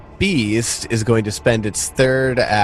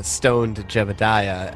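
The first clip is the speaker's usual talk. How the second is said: ordinary talk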